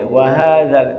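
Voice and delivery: "wa hadzal" fused into a single word; like one word. Shown as a demonstration. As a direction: join "wa" straight onto "hadzal". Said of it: "itu kayak seperti satu kata". ("wa hadzal" seperti satu kata)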